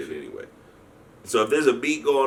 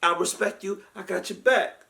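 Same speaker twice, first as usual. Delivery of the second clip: put-on old guard voice; 11 semitones higher than usual. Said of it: "He said".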